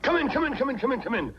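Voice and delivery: high eager calls of come in; calling in. Acted. Grandpa calling visitors in.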